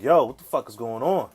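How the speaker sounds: loud alarmed yo, what's going on; startled outburst at his own body. Retold or imitated. Boy alarmed at puberty, loud startled outburst.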